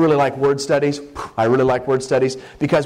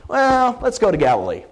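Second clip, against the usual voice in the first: casual mock Jesus; 5 semitones higher than usual. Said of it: "That's what he's thinking".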